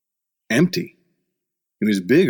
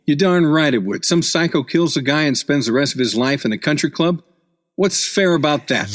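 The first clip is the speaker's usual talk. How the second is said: indignant; 5 semitones higher than usual. Acted. Jacobson objecting to killers living at a country club, indignant. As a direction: bristle at the injustice.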